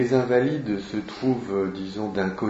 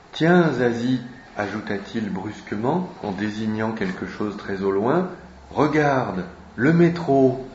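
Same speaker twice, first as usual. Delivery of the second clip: lively read-aloud with voiced characters; reading a novel aloud. Teacher reading Zazie to the class, lively read-aloud. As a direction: bring the Paris dialogue to life.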